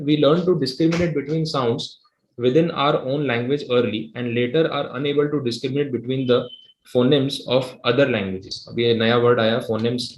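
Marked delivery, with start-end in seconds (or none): 0.0-8.7 very slow, deliberate reading aloud; slow textbook reading. Acted. Teacher reading the textbook definition aloud to the class. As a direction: read the definition out word by word.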